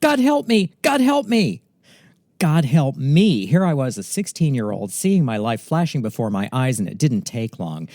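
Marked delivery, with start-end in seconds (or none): 0.0-3.4 very high, loud, frantic, panicked shriek. Retelling how she stopped dead in speeding traffic: retelling her shrieking. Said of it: "started shrieking with her hands over her eyes".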